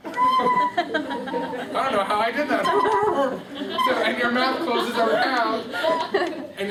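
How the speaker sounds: giggling through the words; laughing. Real, not acted. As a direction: laugh while explaining. Laughs at own mistake mid-instruction.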